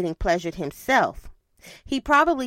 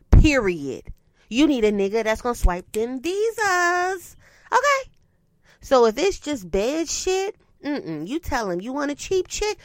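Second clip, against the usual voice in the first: put-on city girl voice; 3 semitones higher than usual. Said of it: "In my city girl's voice".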